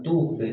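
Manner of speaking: "Tub" with rounded u and neutral b; sukun relaxed normal. Shown as a demonstration. Teacher explaining sukun, "Tub" ending with normal lips. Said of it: "pas baknya kembali normal".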